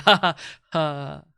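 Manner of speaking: put-on laugh that peters out; weak ha-has, fading out; trailing-off laugh. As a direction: let a fake chuckle trail away. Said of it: "trailing off laugh".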